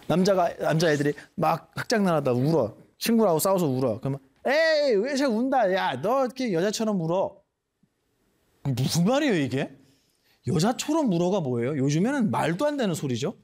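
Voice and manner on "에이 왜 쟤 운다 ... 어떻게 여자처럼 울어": mocking taunt. Mocking a crying boy.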